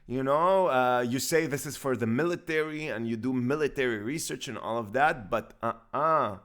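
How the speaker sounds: a playful Texan twang, lightly put on; southern accent. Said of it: "What's up with this accent?".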